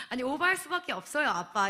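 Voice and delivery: mock-innocent, sly protest; playfully cheeky. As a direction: retell it with cheeky nonchalance. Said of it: "이렇게 그냥 능청맞게 보내고".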